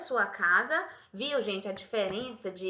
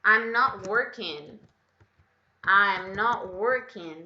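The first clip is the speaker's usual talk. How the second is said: slow, louder "I'm not working"; slow contracted model; 6 dB louder, slower than usual. Shown as a demonstration. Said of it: "posso reduzir e falar I'm not". ("I'm not" devagar e claro)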